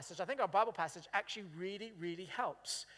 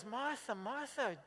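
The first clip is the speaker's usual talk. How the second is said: gentle correction. Retold or imitated. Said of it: "Jesus goes".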